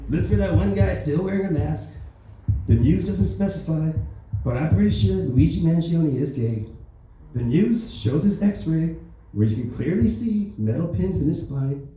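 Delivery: a hint of Trump spreading rumours; Donald Trump impression. Trump talks about the shooter, lightly voiced Trump. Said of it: "I gotta do the voice".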